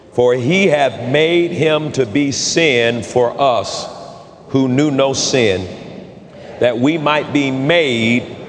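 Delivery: slow, measured Bible reading; scripture reading. Real, not acted. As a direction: lead the congregation through the verse, slowly and evenly. Leads scripture read aloud together.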